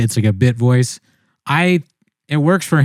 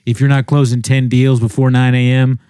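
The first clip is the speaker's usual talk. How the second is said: mock motivational coach; 2 semitones lower than usual. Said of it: "Grindset people that are like".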